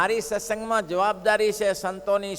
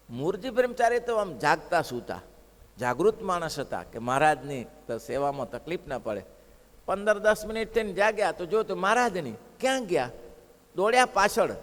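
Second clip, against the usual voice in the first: ordinary talk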